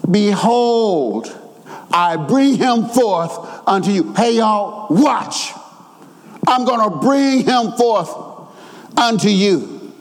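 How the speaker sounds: imitating Pilate's proclamation with weight; emphatic announcement. Preacher voicing Pilate presenting Jesus to the crowd, emphatic. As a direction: present him to the crowd, pausing between phrases. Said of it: "He's using an emphatic voice here".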